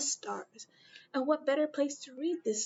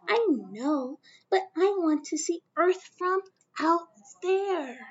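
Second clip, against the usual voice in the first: put-on higher, eager child voice; little Mae; 5 semitones higher than usual. Young Mae telling her mother she wants to see Earth from space, in a higher girl's voice. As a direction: insist like a dreamy little girl.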